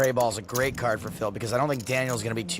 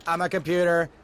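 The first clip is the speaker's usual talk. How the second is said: stiff, even computer voice; robot voice; 4 semitones higher than usual. Shown as a demonstration. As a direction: speak like a machine, no feeling. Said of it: "I'm gonna talk like a computer".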